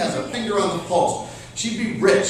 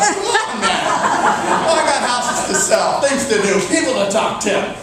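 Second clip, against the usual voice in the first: exasperated protest; 4 semitones higher, 4 dB louder than usual. Retold or imitated. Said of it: "You're like".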